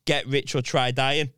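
slow, deliberate botched "try dying"; misquoted slogan. Retold or imitated. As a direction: quote "Get rich or try dying" slowly, words swapped. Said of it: "he said it the wrong way".

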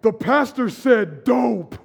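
slow, scandalized mock gasp of church folk; scandalized churchgoer. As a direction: play the shocked churchgoer, drawing it out. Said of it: "people are like".

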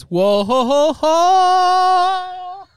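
rising high "whoa ho ho ho"; high mock exclamation. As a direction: squeal it up in pitch. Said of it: "He goes".

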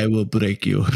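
lightly imitated menacing film villain; mock threat in a villain's voice; Ivan Drago. Listener joking about the demanding coach, mock villain threat. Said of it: "It was very much the Ivan Drago".

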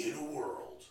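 movie announcer. Pretend. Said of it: "You are not a movie announcer".

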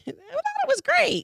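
high, slow laughing reply. Real, not acted. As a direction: laugh through the words. Laughing defense of intro.

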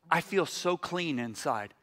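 soft, slow retold confession; tearful relief, understated. Weeping woman telling the preacher how she feels, hushed. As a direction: say it softly and slowly, lightly moved. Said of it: "her eyes are all red from weeping".

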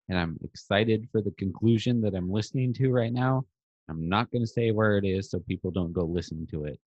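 muffled, underwater mic sound. Real, not acted. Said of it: "your mic sounds like you're underwater".

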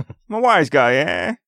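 lightly voiced wise-guy gangster; hint of a noir detective; old-timey detective voice. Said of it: "that's old-timey detective".

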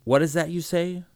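a breaking, astonished cry. A narrator's reading. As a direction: voice jumps high in disbelief. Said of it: "his voice breaking in astonishment".

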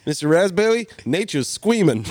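"Raspberry" and "squeaming" with R turned to w or l, laughing; "squeaming" for screaming, like a small kid; says w for r. Retold or imitated. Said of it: "I couldn't say my R's".

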